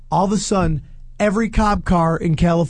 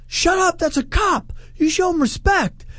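high-pitched imitation of an Irish tough guy; retold Irish-accented telling-off; mock Irish accent; 9 semitones higher than usual. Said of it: "burly Irish dude with an Irish accent".

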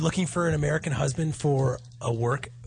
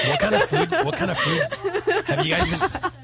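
much higher, laughing in disbelief; 4 dB louder than usual. Real, not acted. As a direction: squeal it through laughter.

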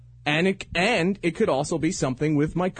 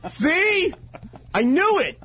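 triumphant shout; 12 semitones higher, slower than usual. Real, not acted. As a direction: crow that you were right all along. Gloating over friend's confession.

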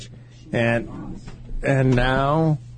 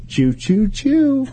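playful choo-choo; 12 semitones higher, much slower than usual. Retold or imitated. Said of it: "I was like".

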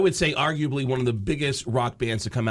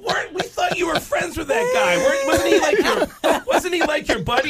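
mock shouted question; 5 dB louder than usual. Band questions drummer.

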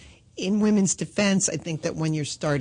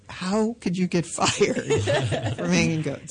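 laughing disbelief. Retold or imitated. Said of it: "roommate is looking at me like".

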